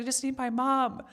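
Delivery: wistful retold plea for mum; on the verge of tears. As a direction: repeat the plea, close to crying. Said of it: "Oh, I'm gonna cry again".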